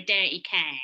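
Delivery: South London accent through the nose; nasal South London accent. Shown as a demonstration. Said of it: "it's a bit nasal".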